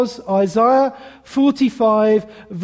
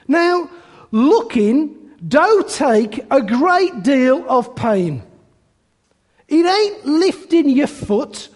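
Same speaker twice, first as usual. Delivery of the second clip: lightly voiced plain-spoken cobbler preaching; a hint of a rustic lay preacher, emphatic; 2 semitones higher than usual. Shoemaker stands in for the missing preacher, lightly imitated cobbler preaching. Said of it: "He did this in a broad Essex accent".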